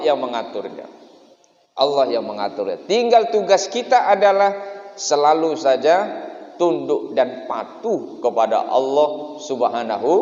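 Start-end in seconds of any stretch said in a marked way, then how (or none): 2.9-10.1 fervent preaching. Acted. Preaching at full force.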